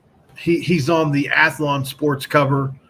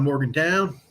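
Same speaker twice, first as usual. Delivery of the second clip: bright sponsor read with a lift; 2 semitones higher than usual. Acted. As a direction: pitch the car spa like a commercial. Reads sponsor ad.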